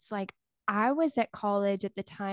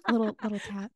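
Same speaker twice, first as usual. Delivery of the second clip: ASMR whisper; faster than usual. Pretend. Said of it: "A S M R for us".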